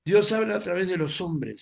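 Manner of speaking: booming preacher's declaration; loud proclaiming. Real, not acted. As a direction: proclaim it to the whole church.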